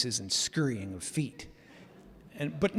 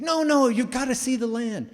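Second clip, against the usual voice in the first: imitating Howard; 10 semitones higher, 5 dB louder than usual. Landowner insisting on a visit.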